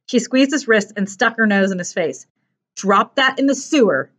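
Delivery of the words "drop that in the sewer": contained threat; understated menace; through clenched teeth. Acted. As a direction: warn him through gritted teeth. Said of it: "said through clenched teeth".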